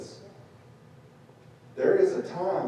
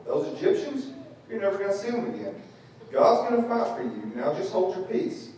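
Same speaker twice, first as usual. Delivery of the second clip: much higher, excited rally cry; Moses rallying; 7 semitones higher than usual. Retold or imitated. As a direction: pump the crowd up, higher and faster. Moses reassures people loudly.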